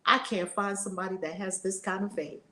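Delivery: a hint of solemn Christ, calm and low; Christ speaking. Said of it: "And he said".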